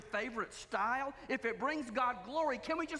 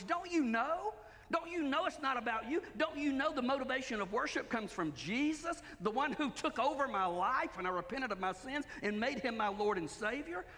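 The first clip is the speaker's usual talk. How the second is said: sarcastic; 2 semitones higher than usual. Retold or imitated. Preacher voicing Paul chiding the church, mild sarcasm. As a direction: needle them with a light sarcastic don't you know. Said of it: "I can almost hear sarcasm in his voice".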